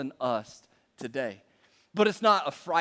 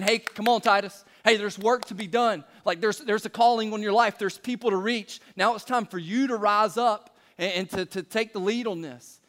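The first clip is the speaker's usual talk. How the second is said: urgent; 3 semitones higher than usual. Retold or imitated. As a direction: urge him to rise up now. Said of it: "a tone of urgency".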